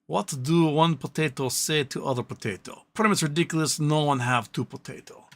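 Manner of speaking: put-on thick Russian accent on a potato joke; lightly put-on Russian accent, reading it out; heavy Russian accent. Reading a viewer's joke in a mild Russian accent. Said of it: "read with heavy Russian accent".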